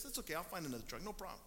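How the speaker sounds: sincere, easygoing "That's okay"; quick, light and honestly unbothered; a pastor meaning it, no guilt; genuine. Retold or imitated. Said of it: "he was legitimate".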